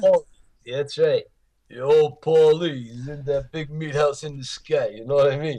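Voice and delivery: a hint of a joking Rocky impression; Rocky-style voice. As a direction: toss it off in a light Rocky voice.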